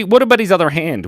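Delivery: American accent slipping out. Real, not acted. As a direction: let an American accent pop out. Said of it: "did you hear my American accent".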